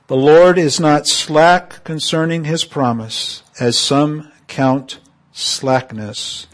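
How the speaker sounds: deliberate reading, leaning hard on key words; emphatic scripture reading. Shown as a demonstration. Preacher reading Second Peter to congregation, emphatically. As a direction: punch the key words of the verse. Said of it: "I'm just going to emphasize them as I read them".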